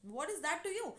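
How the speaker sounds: retold touch of irritation; mildly annoyed. Daughter answering a prying neighbour, mildly annoyed. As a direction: lightly act out a put-out retort. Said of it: "obviously the person was annoyed".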